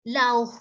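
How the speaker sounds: slow "love" read for "enough", marked wrong. Shown as a demonstration. ("love" salah, pelan)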